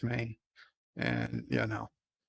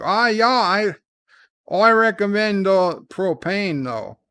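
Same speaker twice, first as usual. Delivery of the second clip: put-on Australian accent; 3 semitones higher than usual. Streamer answering a viewer's barbecue question as an Aussie, in a mock Australian accent. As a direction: play a cartoon Australian barbecue bloke in a jokey Aussie accent. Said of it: "not the accent".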